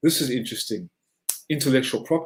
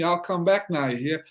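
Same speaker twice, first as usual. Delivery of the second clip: Georgia accent; 4 semitones higher than usual. Shown as a demonstration. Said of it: "my Georgia accent".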